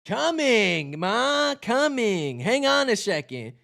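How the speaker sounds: lightly voiced Barry; Barry answering. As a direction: call back to mom, eager.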